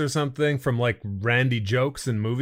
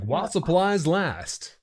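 commercial announcer; 4 semitones higher, slower than usual. Retold or imitated. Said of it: "Remember the old commercials".

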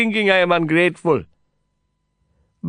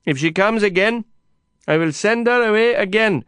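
high, loud stubborn refusal; defiant shouting; 13 semitones higher, 6 dB louder than usual. A narrator's reading. Kasim rejects the journalist's help, defiant shout. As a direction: hold your ground at full voice.

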